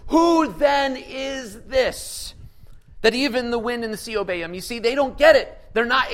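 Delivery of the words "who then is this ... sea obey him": frightened disciples in the boat, crying out; awestruck disciples. Acted. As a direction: shout the question in fearful wonder. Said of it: "said to one another".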